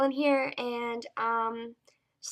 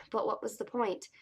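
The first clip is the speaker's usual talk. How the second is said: measured first-person novel reading, paused between sentences; story narration. Acted. Reader shares an excerpt from a favorite book, story narration. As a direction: read it as a teen heroine confiding her story.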